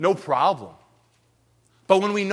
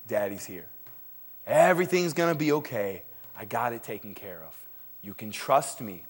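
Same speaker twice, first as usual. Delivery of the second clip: comforting father; 5 semitones lower, 3 dB quieter than usual. Pretend.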